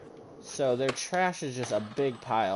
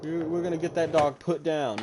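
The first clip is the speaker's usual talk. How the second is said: higher, mock-angry neighbour; neighbour's angry threat; 3 semitones higher than usual. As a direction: imitate the neighbour blustering threats, pitched up a little.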